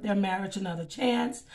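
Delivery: ordinary talk, nothing marked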